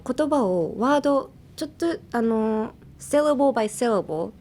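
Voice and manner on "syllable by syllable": slow, separated syllables. Shown as a demonstration. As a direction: break it into measured little pieces. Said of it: "一文字ずつちょっと分けてって".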